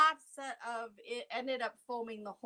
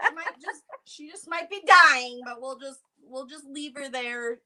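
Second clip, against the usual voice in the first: mock chill; 2 semitones higher, 4 dB louder than usual. Friend jokingly voices extra-calm kids beside their collapsed mom, mock chill. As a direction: play at being unbothered in an emergency. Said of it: "they were so chill".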